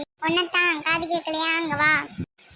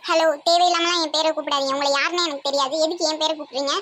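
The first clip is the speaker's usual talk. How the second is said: acted irritated telling-off; annoyed. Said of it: "கோவப்படாதீங்க". (எரிச்சலான கோபக் குரலில்)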